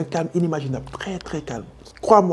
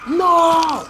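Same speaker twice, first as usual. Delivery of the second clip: high, loud mock scream of a woman; woman's scream; 13 semitones higher, 4 dB louder than usual. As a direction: shriek NO like the woman on the roof. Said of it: "elle commence à crier". (cri aigu imité de la femme)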